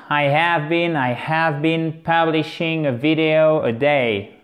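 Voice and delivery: teacher's model phrase; model sentence. Shown as a demonstration. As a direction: say it clearly for learners to copy. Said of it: "Qui se forme de la façon suivante".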